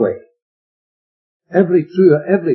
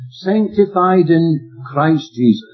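slow emphatic phrase with stress on "Sanctified"; slow preacher emphasis; slow, deliberate; slower than usual. Real, not acted. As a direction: weigh each word of "Sanctified in Christ Jesus". Preacher savouring key phrase.

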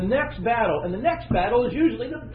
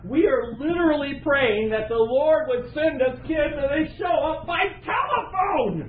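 higher, rising exclamation of amazement; excited retelling; 5 semitones higher than usual. Retold or imitated. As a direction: build in pitch to an astonished finish. Retelling his announcement to prayer meeting.

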